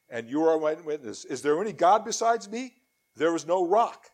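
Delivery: solemn, declaiming Bible reading; scripture reading. Acted. Preacher reading Isaiah to his congregation, solemn declaiming. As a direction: proclaim the words of the Lord to the congregation.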